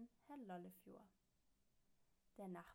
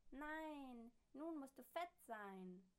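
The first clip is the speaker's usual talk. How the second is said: machine repeating, mangled; 5 semitones higher, 5 dB louder, slower than usual. A narrator's reading. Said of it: "wiederholt die Sprechmaschine".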